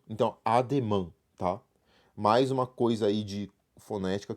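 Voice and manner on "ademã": "ademã" ending in a nasal an, no I or N sounded; "ademã" with final nasal ã. Shown as a demonstration. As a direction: close "ademã" on a French nasal vowel. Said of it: "A gente tá falando an".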